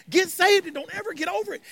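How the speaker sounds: lifted, insistent take without shouting. Real, not acted. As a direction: raise the pitch and press it home.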